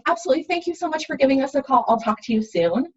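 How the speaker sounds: bright, quick customer service voice; cheerful phone greeting. Shown as a demonstration. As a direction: thank the caller warmly and briskly. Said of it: "It's as simple as being like".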